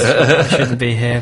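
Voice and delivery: slow, guilty little voice; sheepish voice. Shown as a demonstration. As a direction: drag it out like you're not supposed to be here.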